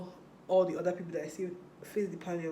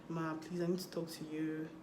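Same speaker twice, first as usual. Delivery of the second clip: softer, respectful request; polite soft plea; 6 dB quieter than usual. Retold or imitated. To the hall admin, asking softly and politely. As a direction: ask gently and deferentially.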